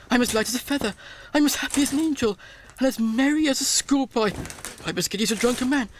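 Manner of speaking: fast and breathless; giddy joy. Acted. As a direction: tumble out the words, giddy with joy.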